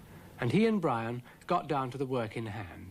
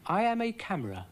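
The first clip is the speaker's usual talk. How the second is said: Brian's voice; 8 semitones higher, faster than usual. A narrator's reading. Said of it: "said Brian".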